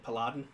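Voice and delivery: "Paladin" said oddly on purpose; deliberate odd pronunciation. Shown as a demonstration. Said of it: "I'm just gonna p-, pr-, pr-, pronounce it".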